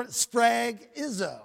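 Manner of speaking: sphragizo said slowly, syllable by syllable; slow, careful Greek word "sphragizo"; careful pronunciation. Shown as a demonstration. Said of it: "I pronounced that right".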